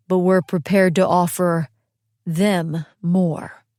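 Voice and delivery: low, measured offer with "them" set slightly apart; the faintest weight on "them"; faint stress on THEM. A narrator's reading. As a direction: pause briefly, then lean lightly on "them". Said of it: "the faintest emphasis on the word them".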